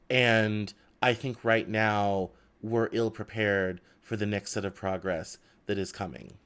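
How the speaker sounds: talking with a dry mouth; parched mouth, sticky speech. Real, not acted. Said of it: "My mouth is dry".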